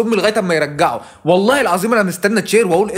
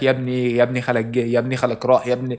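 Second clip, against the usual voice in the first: a hint of a lower nagging voice, repeating يا ابني; nagging uncle-asker; 4 semitones lower than usual. Comedian mimicking a pushy man asking about the uncle, lightly lowered nag. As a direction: keep pestering about the uncle. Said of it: "يفضل يسال خالك".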